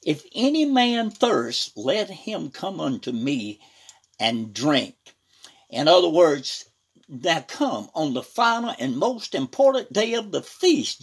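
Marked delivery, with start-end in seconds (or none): 0.0-4.9 retold cry. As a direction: call out the opening, then ease down. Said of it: "Jesus stood and cried, saying".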